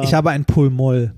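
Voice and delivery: talking around a lozenge; sucking a candy. Real, not acted. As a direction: lozenge tucked in the cheek. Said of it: "dass du die ganze Zeit irgendwas am Lutschen bist".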